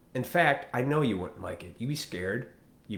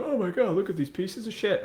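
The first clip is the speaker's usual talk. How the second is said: mocking outraged woman; 9 semitones higher than usual.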